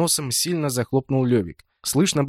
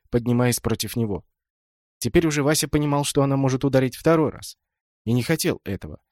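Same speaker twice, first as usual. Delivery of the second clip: ordinary delivery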